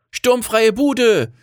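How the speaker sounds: high, drawn-out gleeful cheer; jubilant. A narrator's reading. Sarah cheering that she will have the house to herself, jubilant. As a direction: crow it in a high, lifted voice. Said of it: "jubelte Sarah".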